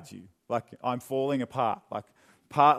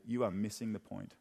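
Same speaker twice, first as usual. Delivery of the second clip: kindly and sternly; 6 semitones lower, 11 dB quieter than usual. Acted. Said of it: "kindly and sternly say".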